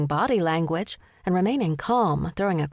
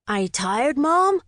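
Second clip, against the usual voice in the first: put-on high, rising boyish taunt; teasing boy; 7 semitones higher, 4 dB louder than usual. A narrator's reading. Son teasing his mother on the bike ride, taunting. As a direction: needle her, lifting sharply on the last word.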